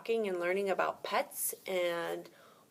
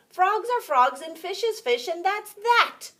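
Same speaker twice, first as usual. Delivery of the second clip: higher, louder, slowing at the end; emphatic raised insistence; stubborn final word; 10 semitones higher, 9 dB louder than usual. Acted. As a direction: put your foot down. Tadpole ends the argument.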